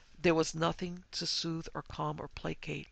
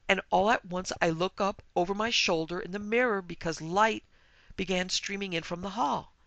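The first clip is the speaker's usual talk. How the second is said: higher, agitated voice of a distraught guest; tearful account; 3 semitones higher, 3 dB louder than usual. Acted. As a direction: act out an upset, halting confession. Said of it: "Sobs choked off the rest".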